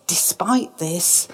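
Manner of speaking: whisper. Shown as a demonstration. Repeated phrase whispered for effect.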